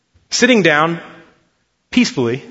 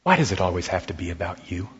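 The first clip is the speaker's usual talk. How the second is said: gentle, lower, softer loving tone; sweet tender voice; 10 semitones lower, 10 dB quieter, faster than usual. Retold or imitated. Wife gently chiding her whining husband, soft and sweet. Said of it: "with a grace-filled, sweet voice".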